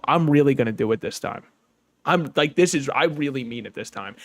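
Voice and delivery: deadpan. Pretend. Comic facing a silent open mic audience, deadpan. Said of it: "look everybody deadpan in the eyes".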